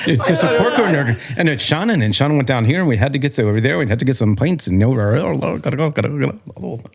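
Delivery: rambling mock brogue, Irish mixed with Scottish; horrible Irish-Scottish accent. Shown as a demonstration. Guest rambling about pints for hosts, bad Irish-Scottish accent. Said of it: "let me hear your Irish Scottish".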